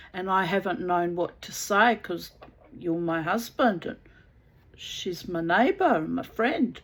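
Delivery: loud, fed-up telling-off of the husband; backing her up. Retold or imitated. The wife siding with her neighbour against her husband, a loud fed-up rebuke. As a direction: finally say it to his face.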